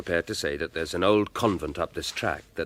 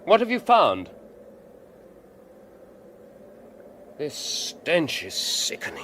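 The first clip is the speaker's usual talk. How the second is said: anxious cry; 8 semitones higher, 4 dB louder than usual. Acted. Alfred anxious at the outhouse.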